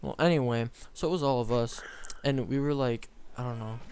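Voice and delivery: lisping around a chewed cap; mouth full. Real, not acted. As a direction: talk with a cap in your mouth. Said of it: "I was chewing on a cap, that's why I sounded like that".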